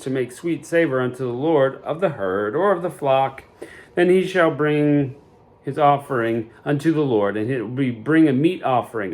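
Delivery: measured, formal Bible reading; a solemn Sunday reading of the law; scripture reading. Acted. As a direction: read the old verses with steady weight. Reads King James scripture aloud.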